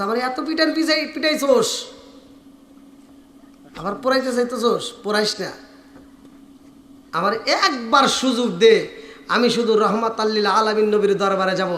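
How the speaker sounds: understated imitation of a crying plea; mild tearful pleading. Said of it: "Haresa কানতে sir বলতেছে".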